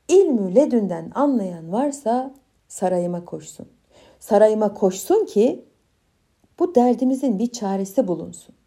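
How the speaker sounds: loud proclamation to the people; town crier. Acted. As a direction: call it out like a herald. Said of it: "tellallarla duyurmuş milletine".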